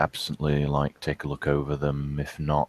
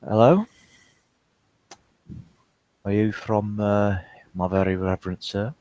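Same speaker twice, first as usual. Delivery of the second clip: put-on broad South African accent, raised and loud; Afrikaans accent; 7 semitones higher, 9 dB louder than usual. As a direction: speak it with a thick Afrikaans accent. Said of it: "his very distinct Afrikaans accent".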